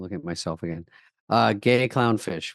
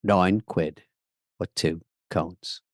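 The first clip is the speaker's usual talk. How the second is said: low mock British; 6 semitones lower, much slower than usual. Trying the line again.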